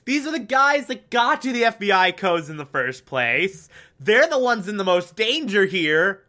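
mock outraged viewer yelling at the screen; angry rant. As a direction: tell off the idiots with rising exasperation. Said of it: "you're so freaking angry".

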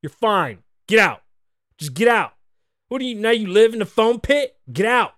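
hammed-up impatient DJ; DJ yelling. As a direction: yell her out of the foam pit. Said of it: "the DJ's like".

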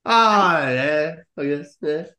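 congested, blocked-nose voice; talking through a head cold; nasal voice. Real, not acted. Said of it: "you sound very nasally".

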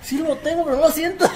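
laughing. Retold or imitated. Reenacting injury, laughing.

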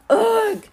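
high, loud "ugh"; exhausted groan. A narrator's reading. Collapsed at the cliff top, an exhausted high groan. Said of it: "I said".

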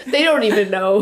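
quiet giggly aside; laughing softly. Real, not acted. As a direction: murmur it through a giggle. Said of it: "repeated louder".

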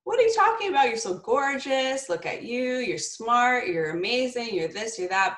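high, bright disbelief that her daughter doubts herself; incredulous reassurance. Retold or imitated. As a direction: gush over her like she's crazy to ask. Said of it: "And I would be like".

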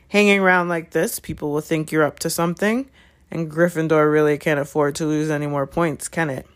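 measured, insinuating warning; lightly voiced threatening teacher; menacing Snape. Snape warns Gryffindors about losing points, menacing.

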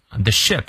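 "ship" with a short, lax i; short vowel. Shown as a demonstration. Teacher contrasting vowel length, "ship" said short. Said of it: "短的".

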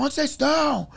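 high-pitched, agitated back-and-forth; mock-frantic high voice; frantic retold calling. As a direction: call it out high like lost friends on the phone. Retold frantic phone calls between lost friends.

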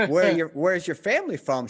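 pushy questioner. Retold or imitated.

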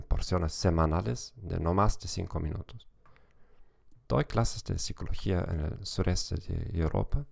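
Spanish with a German accent; German-accented Spanish, careful and measured. Real, not acted. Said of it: "con acento alemán".

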